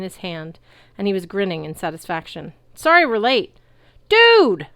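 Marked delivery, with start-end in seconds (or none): 2.7-3.6 grinning call. A narrator's reading. Chiron shouting over battle. 4.1-4.7 very high loud stoked cry; high whooping dude; surfer yell. A narrator's reading. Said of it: "another centaur yelled".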